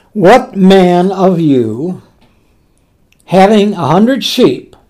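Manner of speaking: measured, solemn reading of the verse; scripture reading. Acted. Preacher reading the parable to the congregation, solemn. Reads scripture aloud in sermon.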